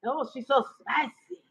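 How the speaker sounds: slow, drooling imitation of a man; hammed-up swooning over a spicy Latina, slow; mock lusting man. Mocking men drooling over Latinas, slow and swooning. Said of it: "You're like".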